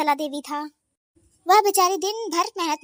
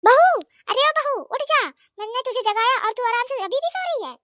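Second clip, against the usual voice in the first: calling out; 7 semitones higher than usual. Acted. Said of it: "आती है और कहती है".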